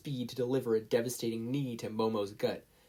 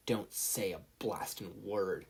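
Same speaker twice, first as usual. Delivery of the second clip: quiet inner voice; 3 semitones lower, 5 dB quieter, slower than usual. A narrator's reading. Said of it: "thought to the voice in his head".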